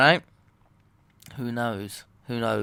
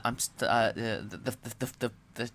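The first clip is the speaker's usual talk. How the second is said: tripping and stuck on words; real stuttering, trailing softer; 3 dB quieter than usual. Real, not acted. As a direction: stumble over the same small word. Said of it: "What a stuttering mess".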